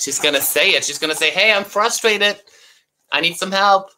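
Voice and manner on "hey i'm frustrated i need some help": speaking up in a high voice. Showing children how to speak up and ask for help: speaking up about frustration. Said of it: "speak up".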